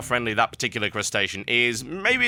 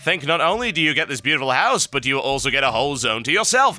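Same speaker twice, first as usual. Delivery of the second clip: lilting sales pitch, rising higher as it goes; mock advert read; 4 semitones higher than usual. Host reading a Greymane Manor postcard, mock sales pitch.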